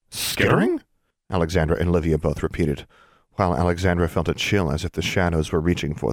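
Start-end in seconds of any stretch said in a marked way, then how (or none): 0.1-0.8 alarmed. Acted. Both react in alarm.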